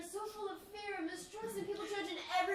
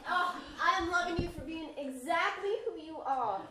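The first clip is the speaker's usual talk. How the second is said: laughing; 8 dB louder than usual. Acted. Daughter answers tearful mother lovingly.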